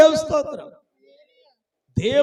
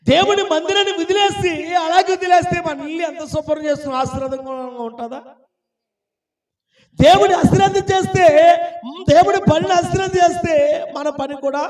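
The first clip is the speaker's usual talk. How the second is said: raised, insistent warning; admonishing preaching; 7 semitones higher, 6 dB louder, faster than usual. Real, not acted. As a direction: press the warning on the congregation. Warns the congregation. (గట్టిగా హెచ్చరిస్తూ ప్రసంగం)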